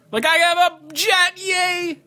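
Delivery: very high, slow gleeful rich-guy voice. Shown as a demonstration. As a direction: squeal it like owning a jet. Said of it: "I'm just going for, like, so happy to be alive".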